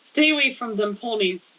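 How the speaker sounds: measured, lightly performed poetry reading; poem reading. Acted. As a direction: read your poem aloud in even, paused phrases. Reads a second poem aloud.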